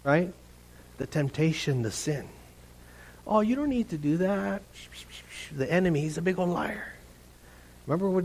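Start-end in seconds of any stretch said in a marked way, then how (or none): 3.3-4.6 lightly voiced soft tempter; a quiet, coaxing aside. The enemy talking someone round, soft tempter.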